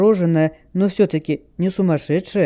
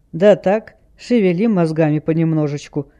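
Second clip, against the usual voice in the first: plain reading voice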